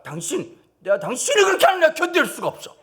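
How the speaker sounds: high, loud, gushing wife voice; swooning wife. Pretend. Wife swooning over husband who defended her, high.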